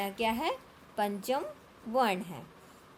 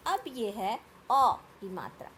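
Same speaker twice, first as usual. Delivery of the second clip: ordinary talk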